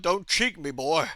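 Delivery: imitated stern American official; grumpy officer. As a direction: put on an officer on a power trip. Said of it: "he got really grumpy at me".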